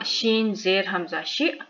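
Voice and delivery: शि clipped by a glottal stop; hamza jerk. Shown as a demonstration. Teacher spelling for learners, शि ending in a jerk. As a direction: cut the short vowel of शि off suddenly. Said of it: "यहाँ फिर झटका आएगा".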